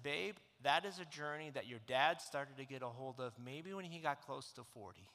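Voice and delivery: low, soft, choked-up words; tearful apology. Real, not acted. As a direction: hold back tears as you apologise. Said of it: "I said".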